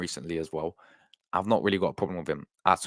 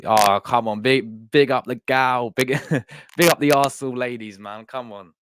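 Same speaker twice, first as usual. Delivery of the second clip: loud happy cheer; big up them, hyped; excited cheering; 2 semitones higher, 5 dB louder, slower than usual. Real, not acted. Cheering Arsenal women winning.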